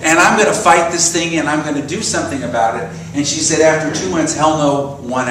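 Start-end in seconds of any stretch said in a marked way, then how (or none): 0.0-2.9 defiant inner voice. Retold or imitated. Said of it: "that other part of me that said".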